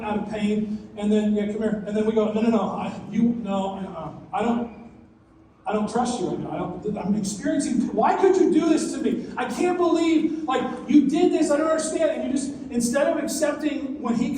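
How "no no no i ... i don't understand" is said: hurt protest. Acted. Preacher acts out hurt believer.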